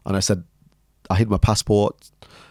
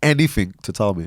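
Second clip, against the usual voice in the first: louder, pointed questioning; serious mum; 4 dB louder than usual. Retold or imitated. Mum on the sofa confronting her son, serious. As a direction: imitate a mum who means business. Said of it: "you could hear that tone of voice".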